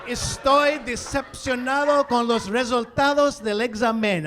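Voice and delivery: loud, indignant Spanish line; loud mock-dramatic Spanish sentence; dramatic Spanish declaration. Shown as a demonstration. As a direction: declare it like grave bad news.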